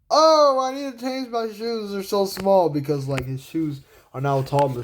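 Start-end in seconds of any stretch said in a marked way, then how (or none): 0.1-2.7 high cartoon complaint; Sonic. Sonic fussing over tight shoes, high cartoon voice. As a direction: start high on a long "oh", then ease down. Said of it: "he's like".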